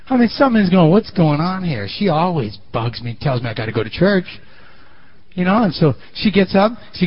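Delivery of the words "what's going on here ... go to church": lightly voiced grumbling husband.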